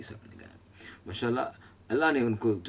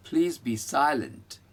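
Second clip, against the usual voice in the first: wife's command; 3 semitones higher, much slower than usual. Retold or imitated. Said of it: "जो हमारी बेगम अक्सर बोलती हैं".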